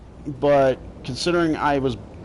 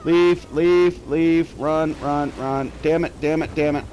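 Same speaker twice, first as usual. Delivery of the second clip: being chased; 2 semitones higher, slower than usual. Real, not acted.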